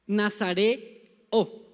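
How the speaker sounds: Nazareo stretched very slowly, every syllable held; drawn-out model word. Shown as a demonstration. Preacher slowly models Nazareo for the congregation. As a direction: say Nazareo slowly so the church can repeat it. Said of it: "Digan conmigo".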